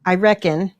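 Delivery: "reckon" said clearly, not "wrecked"; the word "reckon" in an Aussie lilt; Australian reckon. Shown as a demonstration. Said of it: "No, not wrecked".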